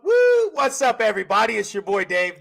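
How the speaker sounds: loud, high, pumped-up show opener; hyped intro shout. Real, not acted. Host opening his roofing podcast, loud and pumped up. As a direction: blast the intro like a hype man.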